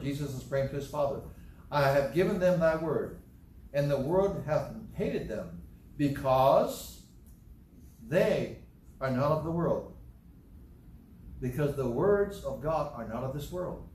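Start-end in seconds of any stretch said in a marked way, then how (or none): 1.7-9.9 deliberate reading, setting "they" apart; emphatic scripture reading. Shown as a demonstration. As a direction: lean on "because" and "they", with pauses after each. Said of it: "I'll emphasize certain words here".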